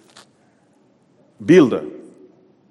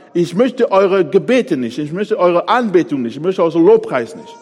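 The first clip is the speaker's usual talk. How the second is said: God's rejection; 4 semitones higher, 4 dB louder than usual. Acted. God voiced, rejecting worship.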